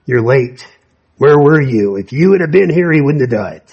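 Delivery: accusing. Retold or imitated. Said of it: "Almost like".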